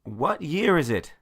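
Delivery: high, loud panicked Jumanji line; Robin Williams impression. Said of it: "my best Robin Williams Jumanji meme impression".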